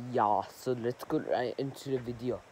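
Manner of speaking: put-on light, half-remembered German accent; a loose stab at a German accent; attempted German accent. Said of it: "I don't speak enough, like, German accent".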